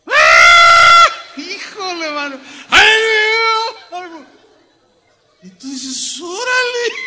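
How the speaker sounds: high, loud, wailing opera imitation; mock opera singer. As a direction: ham up a diva belting out. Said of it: "cuando aparece el tenor".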